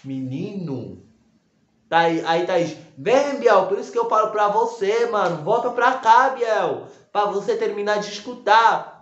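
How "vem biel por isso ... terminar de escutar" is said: raised, calling across the room; retold call to come back and listen; calling him back. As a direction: call him back loudly, a bit higher. Thaís calling Biel back.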